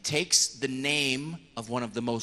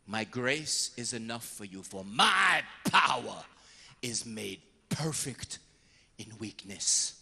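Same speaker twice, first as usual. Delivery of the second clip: gentle Jesus; 5 semitones lower, slower than usual. Retold or imitated. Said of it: "Jesus said to him".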